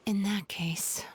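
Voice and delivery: whisper. Acted. Thinking aloud to herself.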